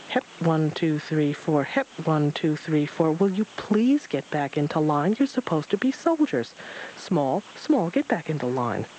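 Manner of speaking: lightly voiced fussy drill sergeant barking a count; screeching Rabbit. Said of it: "Rabbit's voice screeching through the trees".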